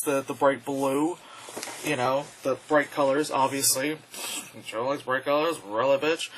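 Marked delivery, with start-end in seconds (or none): 4.7-6.3 grating voice. Acted. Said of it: "I really have to stop talking in that voice".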